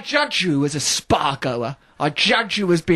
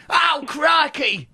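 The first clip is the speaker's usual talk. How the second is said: higher, slow drawn-out exclamation; a fond imitation of Barbara's exclamation; imitating Barbara Windsor; 8 semitones higher, much slower than usual. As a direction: ham up her cockney crikey. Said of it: "Do you really talk like that".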